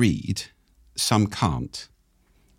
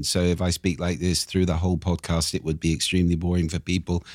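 monotone demo. Shown as a demonstration. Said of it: "There's not a lot of intonation going on there".

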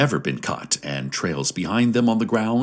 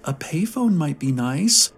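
put-on high, wistful old lady; pining old woman; 7 semitones higher than usual. A narrator's reading. Old woman behind the crowd wishing aloud, pining. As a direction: pine for it in a raised old-woman voice. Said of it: "an old woman's voice pined".

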